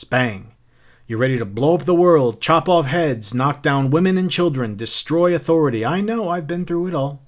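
a touch of knowing mockery; lightly voiced taunting Beatty. Captain mocking Montag's taste for books, lightly taunting. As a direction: lively list building in energy.

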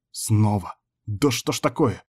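ordinary delivery, nothing marked

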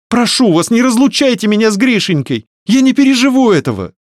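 put-on high, loud, begging young woman; desperate pleading. A narrator's reading. Varya begs the men not to take her son, pleading in a high voice. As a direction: plead as if her heart breaks.

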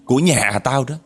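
resentful ghost woman. Retold or imitated. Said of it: "vừa nói vừa gằn giọng mà vừa chửi mà vừa ấm ức".

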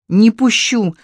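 sharp, on one breath; strained single exhale; hanging on for dear life. A narrator's reading. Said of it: "резко на одном выдохе ответил Женя".

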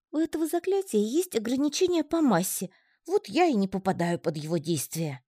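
учёный паучок. A narrator's reading. Паучок объясняет заклятие.

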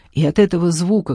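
ordinary delivery

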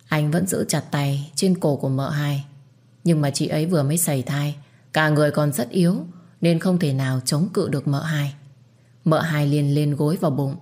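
usual speaking voice

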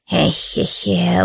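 put-on sighing old woman. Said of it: "и вздохнула".

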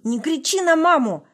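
high, loud strained yell; outraged shout. A narrator's reading. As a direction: scream it at him. Son shouts at father.

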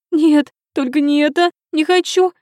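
high, loud panicked scream; terrified screaming. A narrator's reading. Princess begging her mother not to be sent away, panicked screaming. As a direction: shriek it like she's being dragged away. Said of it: "и в испуге закричала".

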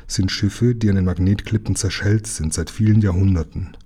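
plain reading voice

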